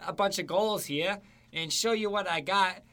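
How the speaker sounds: high, loud cocky boast; cocky player voice. Retold or imitated. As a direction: brag like a star scorer. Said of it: "And he's just like".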